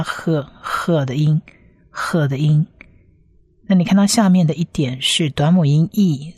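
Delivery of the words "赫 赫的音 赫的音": "赫" as the h sound; pronunciation demo. Shown as a demonstration. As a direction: model "赫" for learners and repeat it. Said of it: "huff的发音是发赫".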